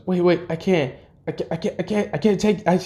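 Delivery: high-pitched, stammering mock panic; flustered refusal. Kid refuses the offered heirloom, flustered refusal.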